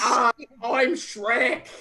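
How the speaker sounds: comic Scottish accent; Shrek. Shown as a demonstration. Host taking an audience request, Scottish accent impression. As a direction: do a hammed-up Scottish ogre.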